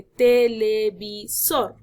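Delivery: "televisor" broken slowly into te-le-vi-sor; syllable by syllable. Shown as a demonstration. Teacher showing a word without tilde, syllable by syllable. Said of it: "separar la palabra en sílabas".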